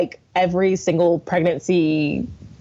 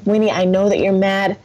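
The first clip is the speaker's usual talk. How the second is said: soothing mom; 3 semitones higher than usual. Retold or imitated. Calming her son, deep breath.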